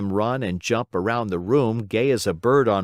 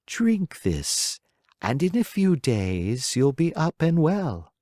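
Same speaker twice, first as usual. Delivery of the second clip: lovingly; 6 semitones higher, slower than usual. A narrator's reading. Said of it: "said lovingly".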